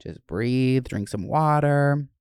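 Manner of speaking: slow, steady reassurance; coaching herself through an anxiety attack, slow and calm; calming self-talk. Retold or imitated. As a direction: talk yourself down gently. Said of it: "I'm like".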